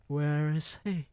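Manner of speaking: lightly voiced witch snap; Grand High Witch snapping. A narrator's reading. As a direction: demand it like a witch.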